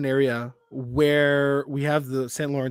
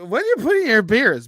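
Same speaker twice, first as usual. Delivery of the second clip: put-on American girl voice; 8 semitones higher, 7 dB louder than usual. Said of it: "the American girls".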